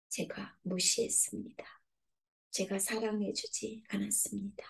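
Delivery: soft, breathy admission of fault; whispered confession. Acted. A sinner confessing to God, whispering. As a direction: barely voice the guilt.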